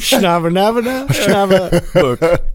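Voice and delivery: drawn-out fake Chinese syllables; fake Chinese accent. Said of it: "That was the worst Chinese accent".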